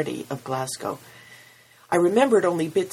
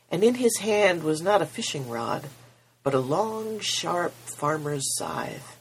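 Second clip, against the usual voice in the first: steady storytelling voice read to a congregation; story narration; 3 semitones higher than usual. A narrator's reading. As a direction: tell it like a parable, unhurried. Reads story aloud at service.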